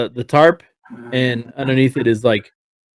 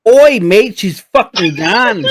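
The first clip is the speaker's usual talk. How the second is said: much higher, louder mate-y donkey, laughing through it; cheeky donkey; 10 semitones higher, 5 dB louder, slower than usual. Acted. Donkey answers the player's question, high and laughing. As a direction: play a brash laddish donkey, cracking up. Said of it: "What's the donkey saying?".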